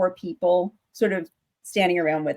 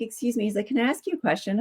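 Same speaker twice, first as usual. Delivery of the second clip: creepy stranger; 3 semitones higher, 5 dB quieter, faster than usual. Retold or imitated. Quoting creepy man with doll.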